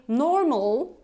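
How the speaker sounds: "normal" with an American R sounded. Shown as a demonstration. Teacher showing the American version. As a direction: put the R into "normal", American style. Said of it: "That would be American".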